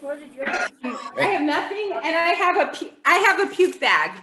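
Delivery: laugh-cry through the words; laughing in panic. Real, not acted. Panicking before the hot chip.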